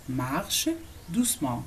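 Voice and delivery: "Marche", a clear pause, then "doucement"; word by word. Shown as a demonstration. Teacher models "walk gently" for learners, word by word. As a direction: separate the two words for learners. Teacher separates the two words.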